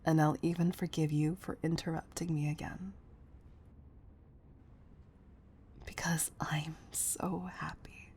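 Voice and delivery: soft, intimate coaxing; quiet, caring murmur to a loved one; tender reassurance. Acted.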